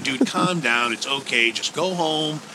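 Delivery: retold reassurance. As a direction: talk an upset friend down, softening at the end. Retells soothing his upset friend.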